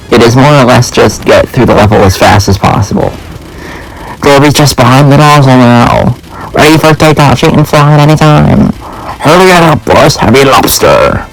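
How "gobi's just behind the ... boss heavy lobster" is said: higher, eager henchman voice rushing the boss; cartoon underling urging the boss on, higher; higher-pitched henchman. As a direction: pitch it up like a jumpy minion. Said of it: "the Skull guy would have a sort of more higher-pitched voice".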